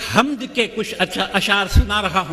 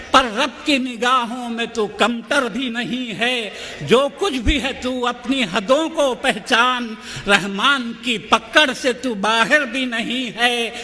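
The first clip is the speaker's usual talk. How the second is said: measured, rhythmic verse delivery; poetry recitation; 3 semitones higher than usual. Acted. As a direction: declaim each line with steady cadence. Poet recites the poem again.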